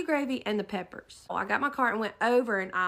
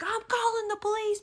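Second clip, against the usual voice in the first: huffy self-talk; 10 semitones higher than usual. Retold or imitated. Woman stomping away with her cart, imitated huffy self-talk. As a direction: imitate someone stomping off, talking to herself. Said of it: "talking to herself".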